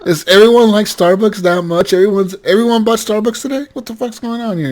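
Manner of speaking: high-pitched mock outrage; retold bafflement. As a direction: act out disbelief, pitched well up. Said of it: "You're like".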